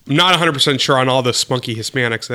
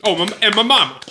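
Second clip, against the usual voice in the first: mock rapper speech; 4 semitones higher than usual. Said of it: "the rap star way".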